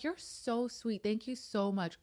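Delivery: drawn-out, sing-song sweetness; replaying her sweet thank-you to the cashier; sugary sweet thanks. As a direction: gush over the kind teenager slowly. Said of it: "And I'm like".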